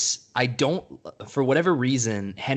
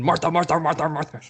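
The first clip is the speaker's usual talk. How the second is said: mock pleading Batman; 7 semitones higher, 3 dB louder, faster than usual. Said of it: "Batman just starts going".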